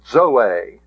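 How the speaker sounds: Zoe begun with DZ, as dzo-AY; DZ sound on zeta. Shown as a demonstration. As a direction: start Zoe with a d before the z. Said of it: "The D Z sound with the zeta".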